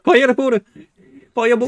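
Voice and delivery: Fireball! said fajɛrbor, French r, laughing; hammed-up French accent. Gamer casting a spell with a mock French accent. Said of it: "avec leur meilleur accent français".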